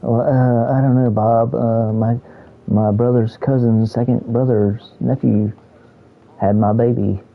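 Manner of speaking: lightly put-on Southern drawl; understated Southern hick impression; mock Southerner. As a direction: play a stereotyped slow Southerner. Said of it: "acting like what people think people from the South".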